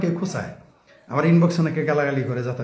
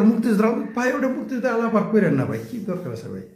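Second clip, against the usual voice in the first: mocking imitation; 5 semitones higher than usual. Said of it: "এরা দেখবেন".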